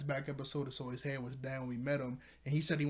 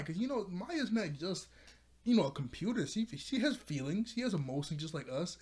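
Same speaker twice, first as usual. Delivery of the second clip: higher-pitched appeal on a friend's behalf; earnest plea; 4 semitones higher than usual. Retold or imitated. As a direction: plead her case to doubtful friends. Acted plea defending Maya.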